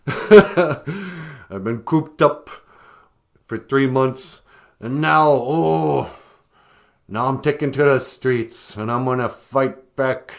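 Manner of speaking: lightly voiced ranting protester; hammed-up cooped-up anger; mock angry protester. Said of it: "Are you angry?".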